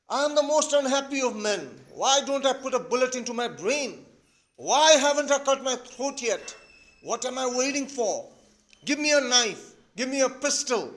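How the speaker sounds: high, loud theatrical despair; acted hysterics. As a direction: declaim it as a desperate man. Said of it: "So even he gets hysterical".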